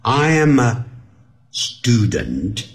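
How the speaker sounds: "I amma", pause, student; I am a joined, student set apart; linked sounds. Shown as a demonstration. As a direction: link am a into "amma". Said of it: "么，么的音".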